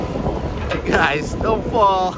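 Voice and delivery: imitating Jim. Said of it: "Jim's like".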